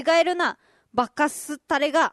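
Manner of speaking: Kagoshima dialect scold. Acted. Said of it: "鹿児島弁".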